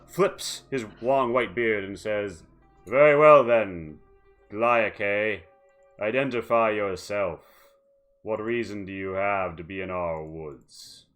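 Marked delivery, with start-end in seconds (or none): 2.9-11.1 put-on commanding old leader voice; stern elder. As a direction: speak with weary authority.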